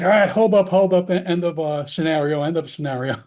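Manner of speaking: calling a sudden halt to the drill; alarmed call to stop. Retold or imitated. Training officer stopping the mock scenario, alarmed call.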